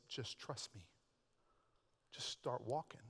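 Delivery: soft unvoiced whisper; still small voice. Holy Spirit's still small voice to the believer, a whisper. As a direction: breathe it gently, barely audible. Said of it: "that still small voice".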